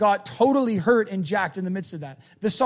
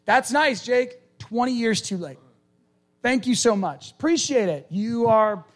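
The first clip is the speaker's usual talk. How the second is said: sarcastic listener; 5 semitones higher than usual. Retold or imitated. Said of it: "You're like".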